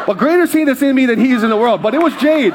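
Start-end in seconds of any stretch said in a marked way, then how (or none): 1.8-2.5 exclaiming. Real, not acted. Exclaiming about a jade heirloom.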